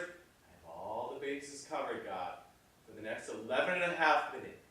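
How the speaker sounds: muttered prayer before a big moment; pleading prayer. Acted. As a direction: pray aloud in short, falling phrases. Bargaining prayer before the take.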